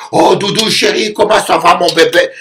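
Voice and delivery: a partner cooing to their spouse; cooing sweetheart. Retold or imitated. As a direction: coo like a romantic lover. Imitates romantic cooing spouse.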